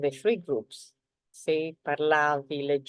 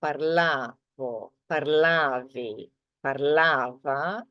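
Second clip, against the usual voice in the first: parlavo, parlavi, parlava, each slowed with the stress on the a; teacher drawing out the stressed a slowly; slower than usual. Shown as a demonstration. Teacher showing learners where the stress falls, slow and deliberate. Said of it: "the stress is on the a".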